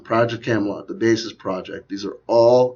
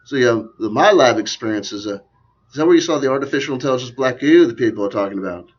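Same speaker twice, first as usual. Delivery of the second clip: put-on accent, louder interview questioning; hammy impersonation in a badly done accent; Miles Johnson; 2 semitones higher, 6 dB louder than usual. Host mimicking an interviewer asking about black goo, in a put-on accent. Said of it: "Here's my Miles Johnson impersonation".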